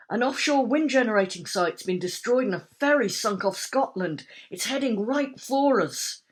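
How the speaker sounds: loud, urgent report; urgent news. A narrator's reading. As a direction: rush the bad news out.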